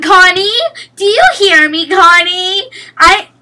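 loud, high yelling for a point; shouting at teammate. Real, not acted. Gamer yells at teammate Connie to win the point, loud. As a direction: bellow at Connie to score.

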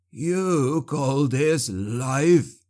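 high, very slow anguished moan; tortured prisoner moaning at his captor, high and very slow; moaning sorcerer. Acted. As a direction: drag it out in misery. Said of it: "Clabe moaned".

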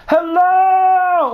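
high, loud call of "Hello!"; mock yell. Gamer mocking careless survivors, loud mock yell. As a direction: call "Hello!" out to the empty street. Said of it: "you never yell".

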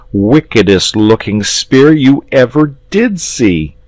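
a lad bursting with news; young boy. Acted. Boy voiced in story.

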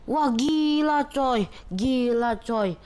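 high, slow amazed "wah"; excited exclamation. Real, not acted. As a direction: marvel at it, drawn out. Reacting to a great move. (takjub bersemangat)

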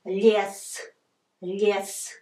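Лес with a palatalized L before the e; soft L. Shown as a demonstration. Teacher showing ye after L, soft L in Лес. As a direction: say Лес as "lyes". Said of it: "that's why it's soft".

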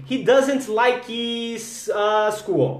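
He doesn't like his, uh, school. drawn out slowly, pausing on uh; buy time with a long uh before school; stalling with a filler. Shown as a demonstration. Teacher showing students how to buy time with a filler. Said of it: "Às vezes você ganha um tempo falando".

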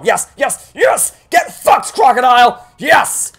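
high, loud victory yells; triumphant screaming. Real, not acted. Triumph after escaping crocodile.

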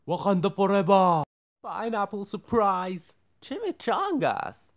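loud, fast battle cry; shouted catchphrase. Retold or imitated.

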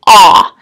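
"ah" said alone as the short O sound; short vowel sound. Shown as a demonstration. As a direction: sound out "ah" as an isolated open vowel. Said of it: "the sound for the O is".

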